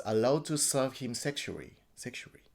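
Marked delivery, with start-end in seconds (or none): 2.0-2.4 breathy whispered echo. Real, not acted. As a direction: drop to a bare whisper. Whispered repeat of last word.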